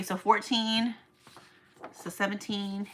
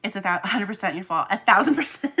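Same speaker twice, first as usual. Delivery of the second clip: teasing laugh; 7 dB louder than usual. Real, not acted. Blaming the viewer playfully, then laughing. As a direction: tease them and burst out laughing.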